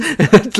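"balance" pronounced "bell-ends", high and loud; mock-incredulous "balance" as "bellends"; German-accented balance. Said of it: "in a weird German accent".

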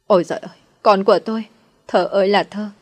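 lightly voiced lament, calling her daughter's name; wailing cry. A narrator's reading. Mother wailing over her injured daughter, mildly voiced lament. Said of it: "mụ ta lại lăn cành ra khóc".

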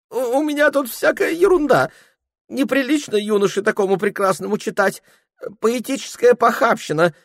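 put-on high, fussy voice of a drunk clerk dodging; flustered young clerk. Ilya fussing. (высокий суетливый голос смущённого приказчика)

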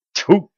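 spitting disgust. Acted. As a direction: spit it out in disgust. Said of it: "душевно плюнул юноша".

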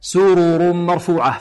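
سرر with both ر full, slow and even; slow, each ر in سرر clearly voiced; correct reading. Shown as a demonstration. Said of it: "هكذا".

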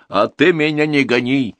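high, loud, slow outraged cry; an old woman flaring up at the accusation; loud, slow, bitter indignation; indignant outburst. A narrator's reading. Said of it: "взбеднилась чайнуха".

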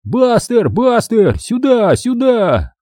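high, urgent calls; yelling for the dog. A narrator's reading. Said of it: "мы все втроём дружно заорали в окно". (громко зовёт собаку)

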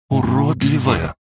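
high, slow, stung question; hurt disbelief. A narrator's reading. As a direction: echo the insult in a high, offended voice. Dragon stung by the insult. (обиженно, удивлённо)

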